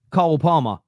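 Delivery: "Cole Palmer" with a short open vowel, like "Col Parmer"; Cole in his accent. Shown as a demonstration. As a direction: say "Cole Palmer" the South London way. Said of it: "You're kind of mixing up the sounds".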